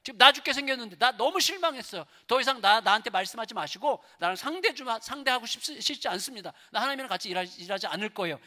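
high, loud protest to God; acted, agitated tirade; angry Elijah. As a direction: vent bitter disappointment at God. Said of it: "막 화를 내는 거예요".

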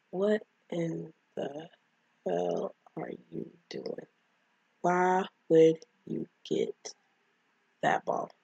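slow, word-by-word incredulous scolding; slow disbelief. Retold or imitated. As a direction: space out every word in exasperated disbelief. Viewer's reaction to foolish character.

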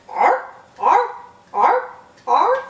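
high, loud barking arr like a seal. Shown as a demonstration. Teacher demos seal of approval cheer: barking seal. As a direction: bark like a happy seal. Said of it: "How about a seal of approval?".

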